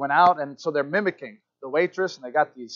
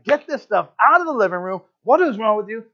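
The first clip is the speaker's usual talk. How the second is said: raised, higher voice of an exasperated parent; mock parental yell; 4 semitones higher, 5 dB louder than usual. Dad tempted to yell at kids over the mess, exasperated mock yell. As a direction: scold the kids, a bit louder and higher. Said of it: "temptation was to yell at them".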